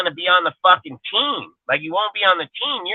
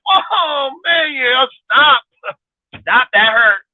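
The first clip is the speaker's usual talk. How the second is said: high, loud whimpering plea, hammed up; mock whiny pain; 10 semitones higher, 4 dB louder, much slower than usual. Mocking a weak fighter crying to stop, high mock wail. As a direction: squeal like a wimp begging to stop.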